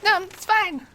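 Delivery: hoarse, high strained parody voice; Batman. Acted. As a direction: insist through a wrecked voice. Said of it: "he was, like, really hoarse".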